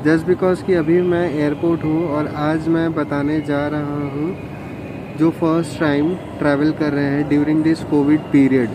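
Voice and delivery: muffled voice behind a mask; through a face mask. Real, not acted. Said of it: "मैं mask लगा के रखा हूँ और आवाज़ थोड़ी सी धीरे आ सकती है".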